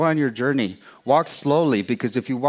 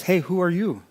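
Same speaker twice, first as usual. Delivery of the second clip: startled mouse; 7 semitones higher than usual. A narrator's reading. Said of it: "Mouse jumps back and says".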